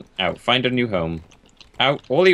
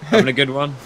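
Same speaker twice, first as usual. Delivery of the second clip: lightly voiced matey greeting, a bit higher; a light mock friendly call across; cheery stranger; 3 semitones higher, 3 dB louder than usual. A stranger greeting you mid-poo, lightly mocked. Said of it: "someone from the distance go".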